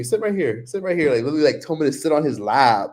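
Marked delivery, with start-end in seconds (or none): 0.0-1.1 higher, teasing coaxing voice; cheeky server. Retold or imitated. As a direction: pat the lap, high and sly.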